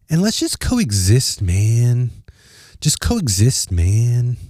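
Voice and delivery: lightly put-on laid-back California surfer accent; a hint of a mellow surfer dude, dragging the vowels. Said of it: "a little surfer accent".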